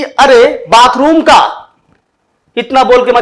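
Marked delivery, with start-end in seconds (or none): 0.0-1.7 slow, drawn-out mild scolding; mock anger. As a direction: pretend to be cross, stretching the words. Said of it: "मैंने गुस्से में क्या बोला". (हल्के बनावटी गुस्से में, खींचकर)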